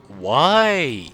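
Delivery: drawn-out, exasperated wail; long rise and fall of frustration. Real, not acted. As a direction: lament your own flubbed takes. Exasperated at own repeated flubs.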